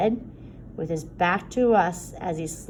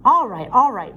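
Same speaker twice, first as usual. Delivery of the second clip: calming; 5 semitones higher, 10 dB louder than usual. Acted. Minister calming an argument.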